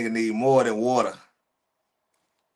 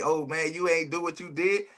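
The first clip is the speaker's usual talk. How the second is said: mock whiner; 3 semitones higher, 4 dB quieter than usual. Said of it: "crying and hooping and hollering like".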